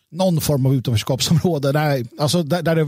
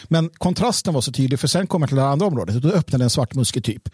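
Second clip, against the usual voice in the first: ordinary talk, nothing marked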